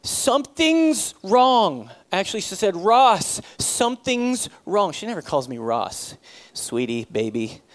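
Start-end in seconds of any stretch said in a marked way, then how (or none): 0.0-1.9 haunting tone. Retold or imitated. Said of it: "like, haunting tone". 2.8-4.9 haunting tone. Retold or imitated. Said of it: "like, haunting tone".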